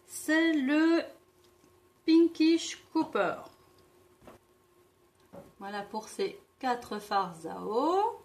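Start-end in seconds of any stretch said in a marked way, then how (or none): 0.1-3.4 higher, louder announcement. Real, not acted. Reads an English shade name.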